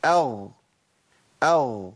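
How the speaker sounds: أغ with a short measured voiced gh; still ghayn. Shown as a demonstration. Teacher warning not to overdo it, carefully measured. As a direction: end أغ on a clean gh without stretching it. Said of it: "اوعى تزودها عن كده".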